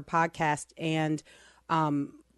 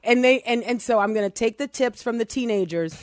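excited; 3 semitones higher, 6 dB louder than usual. Real, not acted. Excited intro of guest.

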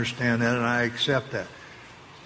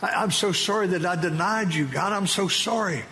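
weeping apology; 5 semitones higher than usual. Retold or imitated. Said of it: "I began to weep".

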